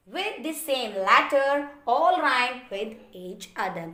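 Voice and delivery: reading a definition word by word, very slowly. Acted. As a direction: read it out slowly for the class to follow. Reads English definition aloud. (परिभाषा को बहुत धीरे-धीरे पढ़ना)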